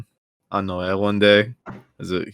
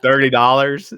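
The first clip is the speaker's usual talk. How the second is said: slightly raised questioning collector voice; debt collector; 3 semitones higher, 4 dB louder than usual. Acted. Collector questioning debtor's offer, mildly incredulous, no accent. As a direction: echo the offer as a doubting question. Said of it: "And then they go".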